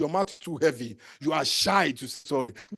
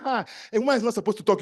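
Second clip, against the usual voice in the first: mocking shy girl; 3 semitones higher, faster than usual. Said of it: "You are saying".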